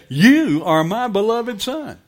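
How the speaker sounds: high, loud proclamation from heaven; God's voice. Retold or imitated. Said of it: "what would the voice of God sound like".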